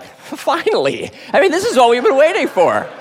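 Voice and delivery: finally, at last, burst out with it; eager boys. Retold or imitated. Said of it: "my friend and I were like".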